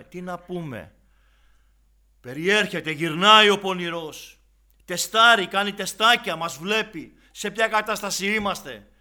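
loud, high, forceful sermon delivery; fiery preaching. Acted. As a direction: hammer the warning at the congregation.

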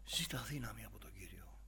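hushed, urgent whisper; whispered plea to the weary. Acted. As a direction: breathe the plea softly, voiceless. Urging tired brother to pray.

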